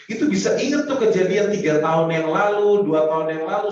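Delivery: forceful preaching. Real, not acted. Emphatic sermon point.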